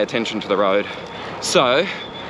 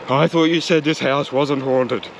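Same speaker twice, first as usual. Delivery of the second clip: mock ghost-story character; 3 semitones higher than usual. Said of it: "campfire tales or something".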